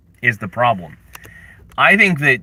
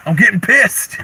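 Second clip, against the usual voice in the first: higher mock-angry whine; 6 semitones higher than usual. Shown as a demonstration. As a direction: whine it as fake anger.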